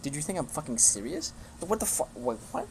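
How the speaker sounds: exasperated, can't believe they fell for it; incredulous retort. Retold or imitated. Retelling his own reply to teammates, incredulous. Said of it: "I was like".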